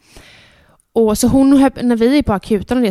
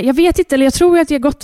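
stressed retelling; 5 semitones higher, faster than usual. Retold or imitated. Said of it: "jag är stressad".

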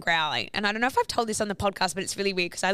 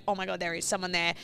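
quiet retold shock without laughter; mildly stunned reenactment; understated shock; 4 dB quieter, faster than usual. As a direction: say it stunned, barely raised.

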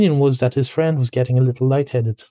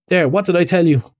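higher-pitched, pleased exclamation; mildly triumphant, voice lifted; 6 semitones higher than usual. Acted. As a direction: crow over being proved right. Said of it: "exclaimed the rat in great triumph".

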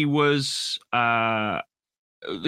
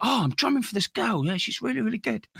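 mock-innocent Kenny; 8 semitones higher, 3 dB quieter than usual. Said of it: "He's like".

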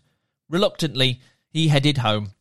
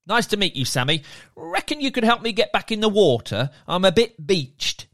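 merman; 4 semitones higher than usual. Acted. Merman character voiced.

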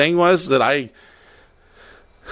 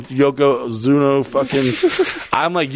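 ordinary talk, nothing marked

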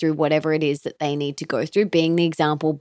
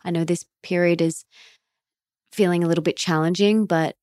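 softer, tender comforting words; gentle reassurance; 3 dB quieter than usual. Shown as a demonstration. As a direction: lightly soothe a struggling partner. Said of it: "putting your hand on their leg or their shoulder and just saying".

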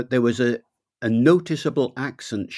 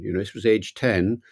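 ordinary talk

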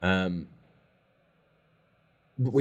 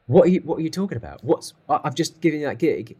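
imitated angry rant, raised and louder; furious telling-off; 5 semitones higher, 6 dB louder than usual. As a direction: act out a fuming mentor's fast outburst. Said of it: "Glenn was furious".

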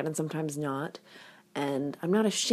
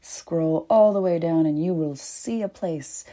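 whispering. Real, not acted. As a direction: hush it like a secret. Whispered ad instruction.

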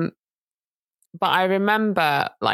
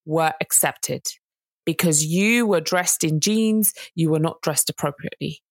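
slow cold judgement. Retold or imitated. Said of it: "She said to her".

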